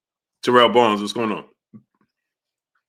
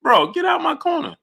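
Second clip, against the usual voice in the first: irritated brush-off. Retold or imitated. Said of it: "Tank wanted to say to him".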